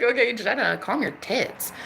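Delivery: telling herself to calm down. Retold or imitated. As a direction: talk yourself down quietly. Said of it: "And I was like".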